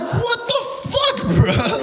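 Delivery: very high, drawn-out incredulous shriek; outraged yell. Retold or imitated. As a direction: cry out in stretched, high-pitched outrage. Outraged at kid kicking dirt.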